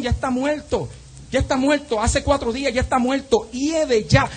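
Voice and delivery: high, urgent preaching voice; impassioned preaching. Acted. Preacher voices grieving sister telling the Lord it's too late, impassioned.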